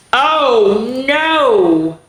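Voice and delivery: high loud mock alarm; surprised. A narrator's reading. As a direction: cry out in playful alarm. Reader reacts to the next page.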